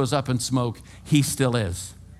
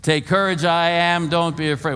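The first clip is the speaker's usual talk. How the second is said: raised voice, leading a group; run together as one word; 4 semitones higher, 4 dB louder than usual. Shown as a demonstration. Preacher leading congregation in storm cry, raised voice. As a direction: call it out in one unbroken run. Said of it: "One word".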